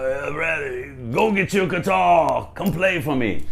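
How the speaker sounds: high, drawn-out imitation of a rock singer; imitated star hollering an order; a rock star. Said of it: "So I go to meet him".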